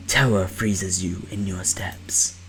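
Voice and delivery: hushed fearful narration; whispering narration. Acted. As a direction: whisper the scare.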